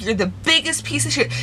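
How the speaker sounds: heated retold accusation; retold going off. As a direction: reenact telling him off. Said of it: "that's when I went fucking off".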